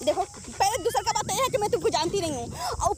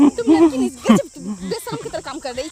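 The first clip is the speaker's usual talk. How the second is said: angry scolding; 7 semitones lower, 8 dB louder, slower than usual. Real, not acted. Woman scolding prankster.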